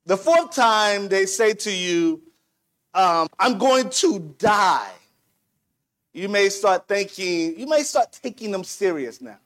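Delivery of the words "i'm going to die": urgent cry. Retold or imitated. Preacher voicing the friend's fourth warning, shouted slowly. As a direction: call it out like a desperate warning.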